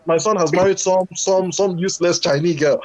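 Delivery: put-on high, wailing Nigerian accent, ashamed mother; Nigerian mum accent. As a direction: wail like a Nigerian mum shamed by her son. Mother's lament continued in accent.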